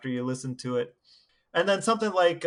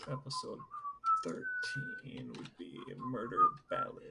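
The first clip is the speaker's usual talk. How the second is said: very high, slow falsetto sing-song; silly falsetto; 12 dB quieter, slower than usual. Pretend. Silly outtake after the sign-off.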